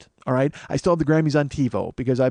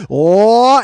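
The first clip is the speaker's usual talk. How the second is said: loud, drawn-out "oh" rising in pitch; mock alarmed cry as the plane dives; nosedive yell; 6 semitones higher, 9 dB louder than usual. Comic catching himself lapsing into a racist voice, alarmed yell. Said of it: "the plane went into a nosedive".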